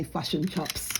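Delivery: New Zealand vowels, "fush and chops"; New Zealand accent. Shown as a demonstration. Showing how New Zealanders talk, flattened Kiwi accent. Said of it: "They say".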